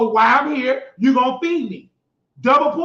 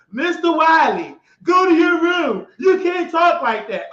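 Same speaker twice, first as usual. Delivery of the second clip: imitating scolding staff; 4 semitones higher than usual. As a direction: scold him like a stern staffer.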